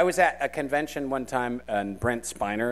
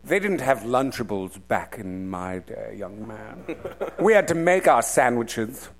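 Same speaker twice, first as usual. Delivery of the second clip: lower, lightly voiced old scold; imperious disapproving aunt; 3 semitones lower than usual. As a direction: lecture the kid like a stern elder. Scolding elder, "young man.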